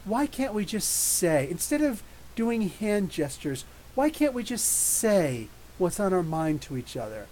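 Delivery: slow, drawn-out peace-and-love teacher; lightly voiced gentle hippie pleading; mild mock hippie teacher, slow. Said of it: "She's like".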